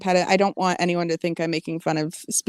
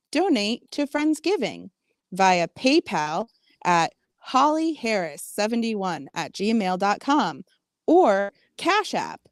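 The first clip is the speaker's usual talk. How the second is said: advertisement. Acted. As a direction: read it like a radio commercial. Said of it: "I'm gonna do an advertisement".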